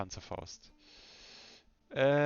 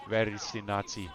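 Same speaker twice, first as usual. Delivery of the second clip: put-on German accent; 2 semitones lower than usual. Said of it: "I need to lose the German accent".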